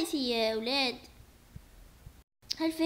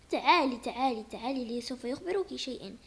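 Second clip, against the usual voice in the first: soft coaxing; 4 semitones lower, 4 dB quieter than usual. Acted. Father coaxing child softly.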